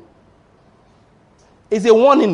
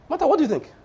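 sly tempter; 10 semitones higher, much faster than usual. Retold or imitated. Satan stirring up Martha.

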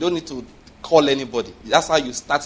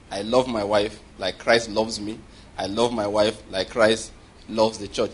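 slow, slightly lowered recitation; measured declaration; 4 semitones lower, slower than usual. Shown as a demonstration. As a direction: recite it deliberately as a personal confession. Models a confession to recite.

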